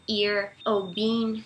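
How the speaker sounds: "ear" and "bean" with a long I as in Portuguese; "ear ou bean", both on an EE vowel; EE sound. Shown as a demonstration. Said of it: "a pronúncia acaba com esse som de I".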